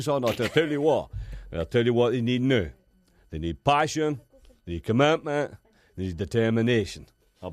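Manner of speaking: lightly done Scottish pundit with pet phrases; a hint of Alan Hansen, repeating his catchphrase; Alan Hansen impression. Scottish pundit answering Gary Lineker, light Alan Hansen voice. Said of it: "yes, Alan Hansen".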